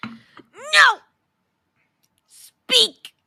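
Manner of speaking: high, loud fake-crying yell; mock wailing protest. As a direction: plead loudly like a hammy crybaby. Playful wailing protest at being shut down.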